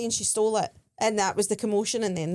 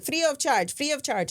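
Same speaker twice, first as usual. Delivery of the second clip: imitated rose seller; 6 semitones higher than usual. Acting the insistent rose seller.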